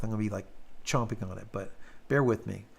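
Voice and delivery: talking around a cough drop; words round a lozenge; mouth full. Real, not acted. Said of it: "I gotta put this in my mouth".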